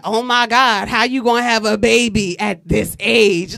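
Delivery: judgy comment. Retold or imitated. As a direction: throw her judgment back loudly. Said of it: "Keisha all in my comments like".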